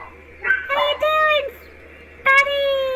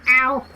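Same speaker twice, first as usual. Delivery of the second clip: sharp ouch; 10 semitones lower than usual. Pretend. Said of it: "I've hurt me toe".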